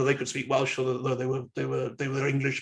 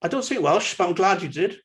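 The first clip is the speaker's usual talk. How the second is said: friendly. Shown as a demonstration. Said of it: "So we could say something like this".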